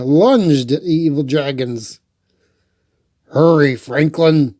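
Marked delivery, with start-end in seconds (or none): 3.3-4.5 louder urgent call to a friend; shouting Bear. Acted. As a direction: call Franklin over, a bit louder. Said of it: "shouted Bear".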